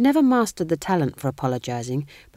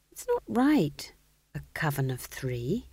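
sad; 3 dB quieter, slower than usual. A narrator's reading. Young witch regrets a coven of only three, sadly. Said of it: "she said sadly".

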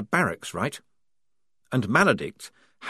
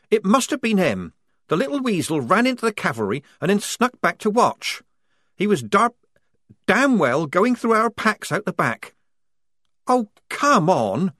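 put-on higher, louder, indignant young soldier; Polly accusing; 11 semitones higher, 5 dB louder than usual. A narrator's reading. Polly blaming Strappy to the squad, indignant and higher. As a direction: drag out come on at the end.

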